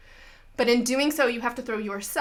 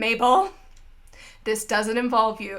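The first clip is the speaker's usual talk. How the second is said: agent's reply; 3 dB louder than usual. Acted. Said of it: "And Agent Smith's like".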